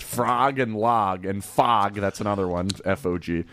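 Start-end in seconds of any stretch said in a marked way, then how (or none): 0.0-1.9 frog, log, fog said as frahg, lahg, fahg; regional open vowel. Shown as a demonstration. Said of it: "Dog is pronounced properly, but".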